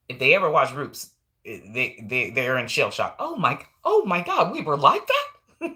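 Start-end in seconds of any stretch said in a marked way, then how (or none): 3.2-5.7 high, laughing mock gasp of a white viewer; hammed-up horrified white person; mock shocked white viewer. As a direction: play the stunned white viewer, much higher.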